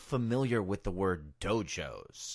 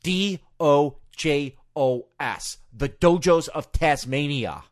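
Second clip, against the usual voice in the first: letters spelled out slowly and deliberately; slow spelling out; 4 dB louder, slower than usual. Retold or imitated. Taz spelling his hometown for the announcer, slow and deliberate. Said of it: "He just goes".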